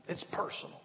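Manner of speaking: "It's personal." repeated in an unvoiced whisper. Shown as a demonstration. Pastor leaning in to the congregation, whispering "It's personal.". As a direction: breathe "It's personal." close and intimate. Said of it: "let me ask you a question".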